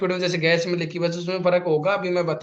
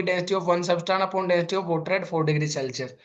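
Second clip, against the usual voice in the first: slow dictation; much slower than usual. Shown as a demonstration. Teacher to class writing the definition, slow dictation. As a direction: stretch every word of the definition.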